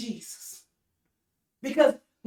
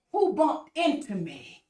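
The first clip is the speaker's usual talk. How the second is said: slow wrong quote; slower than usual. Retold or imitated. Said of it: "Jesus did not say".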